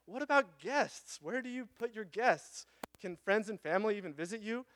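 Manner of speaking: a hint of an anxious letter writer; quoting a worried woman. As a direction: ask it as a concerned reader. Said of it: "She says".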